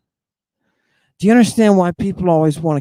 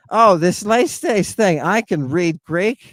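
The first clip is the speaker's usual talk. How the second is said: imitated modern Greek accent, higher pitched; mock modern Greek accent; 4 semitones higher than usual. Speaker mimics a would-be debunker reading Greek, mock modern Greek accent. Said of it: "He's using a modern Greek accent".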